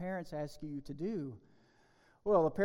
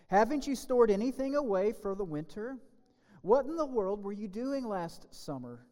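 surprised ants; 3 semitones higher, 3 dB louder than usual. Acted. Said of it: "cried the ants in surprise".

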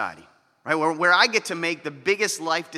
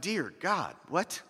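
softer, breathy stunned aside; stunned disbelief; 7 dB quieter, slower than usual. Retold or imitated. Pastor reacting to the harsh verse, softly stunned. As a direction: mutter it, floored. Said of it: "I'm like".

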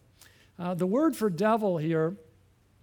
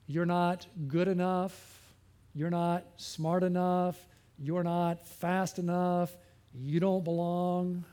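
slow, taunting whisper of doubt; accusing inner voice; 2 semitones lower, slower than usual. Retold or imitated. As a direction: voice the devil's lies slowly. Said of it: "where that voice comes from".

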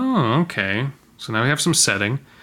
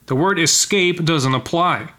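a sharper, higher, slower snap at "word"; snapped; 5 semitones higher, slower than usual. Acted. Man rebuking his wife, a higher, slower snap. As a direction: bite the line off as a rebuke. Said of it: "he snapped".

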